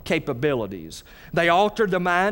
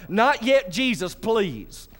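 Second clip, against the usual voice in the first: pleading demon; 5 semitones higher, much slower than usual. Retold or imitated. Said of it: "They're like".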